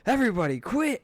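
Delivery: high-pitched, overwhelmed mock yell; exasperated yell. Dad overwhelmed by household noise, exasperated yell. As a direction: yell it up high at the whole room.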